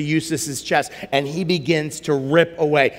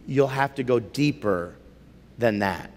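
low, soft lion voice going lower; lion speaking; 6 semitones lower, 5 dB quieter than usual. Acted. Aslan telling Eustace to dig deeper, low and soft. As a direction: rumble it low and calm like a wise lion.

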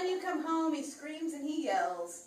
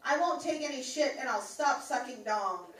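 mock pledge; 3 semitones higher, 3 dB louder than usual. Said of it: "repeat after me".

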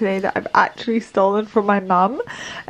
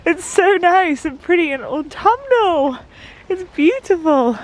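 talking to a dog; 7 semitones higher, 4 dB louder than usual. Acted. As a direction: coo at the dog adoringly. Greeting the dog sweetly.

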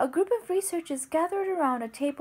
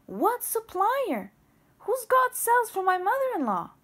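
slow, higher, louder questions; angry demand; 8 semitones higher, 4 dB louder than usual. Acted. Babette demands to know who has the cells, loud slow anger. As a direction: press him hard, word by word.

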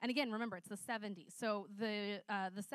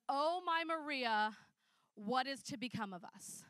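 put-on little boy's dramatic lament; 3 semitones higher, 5 dB louder than usual.

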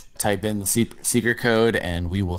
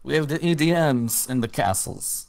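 bad Russian accent; 5 semitones higher than usual. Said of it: "two guys doing bad Russian accents".

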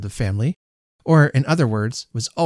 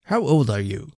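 put-on adult asking a small boy his age; godfather's question. A narrator's reading. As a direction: ask with weight on "How old".

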